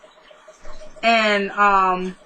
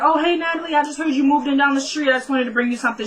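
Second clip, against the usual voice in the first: higher-pitched imitation of a friendly new neighbour; friendly neighbourly greeting; 5 semitones higher than usual. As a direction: chirp a mock welcome, pitched up.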